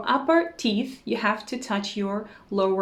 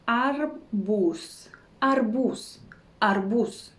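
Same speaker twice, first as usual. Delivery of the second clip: arbuz stretched syllable by syllable; drawn-out demonstration; much slower than usual. Shown as a demonstration. Teacher showing learners a Russian word, drawn-out demonstration. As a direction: say arbuz slowly, both syllables long.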